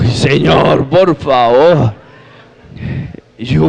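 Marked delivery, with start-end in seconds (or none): 0.0-1.9 mock plea, drawn out very slowly; exasperated plea. Man begs the Lord after a tempting call, exasperated plea. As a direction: stretch it into a weary, comic appeal.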